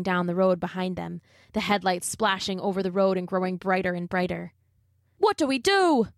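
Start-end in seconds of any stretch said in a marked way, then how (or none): 5.2-6.1 frightened cry. Acted. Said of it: "Liam cried".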